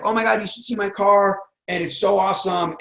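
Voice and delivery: bursting to show off the car; excited. Retold or imitated. New car owner bragging to a friend, excited.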